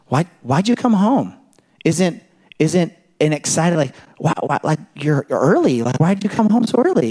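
hammed-up defensive challenge; a hint of a wary wife; mock suspicious wife. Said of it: "postured as an enemy".

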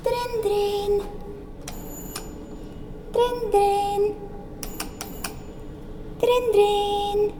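high ringing dryn dryn; doorbell imitation. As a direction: ring it like a doorbell.

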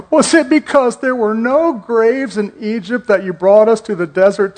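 lightly whiny Israelites complaining to Moses. Retold or imitated. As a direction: whine it like a grumbling crowd, only a touch. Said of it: "I'm gonna do this in a whiny voice".

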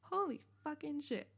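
put-on high, awkward swearing like a kid who's never sworn; mock a kid fumbling a swear word; imitating a teen's clumsy cursing; weird kid swearing. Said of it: "she would say it really weird".

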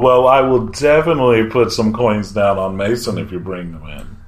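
excited ooh, then keen; mildly thrilled betting voice; eager gambler. Acted. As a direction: perk up at a tip. Gallon excited about Mason.

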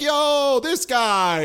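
high, hyped-up frat bro shout-out; frat guy. Acted. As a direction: hail your buddy like a party bro. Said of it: "a group of frat guys are like".

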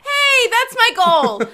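loud, slow, laughing declaration of a goal; excited declaration. Real, not acted. Declaring her weight goal to her cohost, excited and laughing. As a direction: announce it proudly through laughter.

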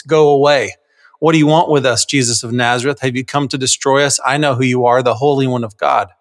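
demon's cry read in an everyday voice; no drama, just read it through; lame Bible reading. Shown as a demonstration. Dad reading a demon's words to family, lamely. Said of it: "then be lame when you pull the Bible out".

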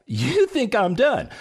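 high, slow, laughing tease. Real, not acted. Host teasing listeners with a laughing repeat.

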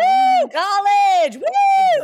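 put-on high drunk college whoop; party whoop.

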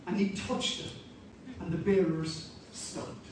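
awed hush over the coffin; hushed awe. Acted. Hushed retelling of the touch.

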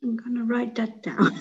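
breathy laughing whisper. Real, not acted. Client whispers through a laugh to her coach. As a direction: giggle it out under your breath.

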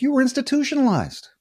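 high, incredulous comeback; mock incredulous retort. He answers his ex-girlfriend's jab, high mock retort.

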